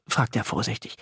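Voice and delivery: ordinary delivery, nothing marked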